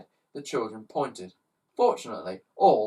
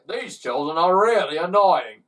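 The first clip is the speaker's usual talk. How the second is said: murmured; 5 semitones higher, 9 dB louder than usual. Acted. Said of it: "murmured Slime".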